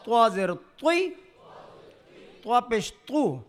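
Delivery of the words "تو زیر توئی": توئی with the mouth full and the tongue root raised; heavy thick ط sound. Shown as a demonstration. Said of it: "یہ طریقہ ہے".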